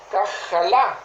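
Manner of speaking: "kajalá" stressed on its last syllable, LÁ; stress on final A. Shown as a demonstration. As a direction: land the accent of "kajalá" on the closing A. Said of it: "con acento en la última A".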